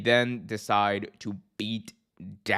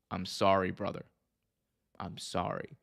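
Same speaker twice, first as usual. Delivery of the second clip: soft apology; 3 semitones lower, 6 dB quieter than usual. Retold or imitated. Sami apologizing to Jey.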